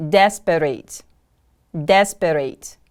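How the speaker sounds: "Desperate" with DES stressed, falling away; careful teacher's "Desperate", weight on the first syllable. Shown as a demonstration. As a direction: model "Desperate" as DES-per-ate. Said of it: "The stress is on the first syllable".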